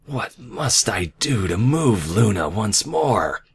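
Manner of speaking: slow, high, swooping regal complaint; exasperated villainess with bruised ego; frustrated demand. A narrator's reading. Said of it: "she demanded, frustrated and ego bruised".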